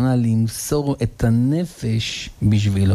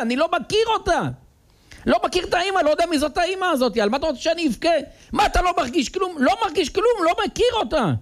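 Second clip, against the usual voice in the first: put-on high, fast, careless child's voice; indifferent son; faster than usual. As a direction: shrug it off like a boy who feels nothing. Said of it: "אומר לו".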